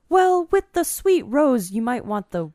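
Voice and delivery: high, slow barista impression; sing-song customer service voice; imitating barista. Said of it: "he's like".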